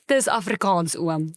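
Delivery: mock broad Afrikaans oom voice; broad South African accent. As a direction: drawl it like an Afrikaans uncle. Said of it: "Proper Afrikaans, nee".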